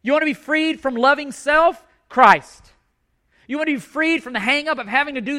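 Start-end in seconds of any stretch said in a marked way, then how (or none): 2.1-2.7 ringing answer. Real, not acted. Preaching climax.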